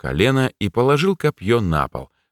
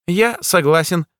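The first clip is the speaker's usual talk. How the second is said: jester voice; 10 semitones higher than usual. A narrator's reading. Jester Blik speaks.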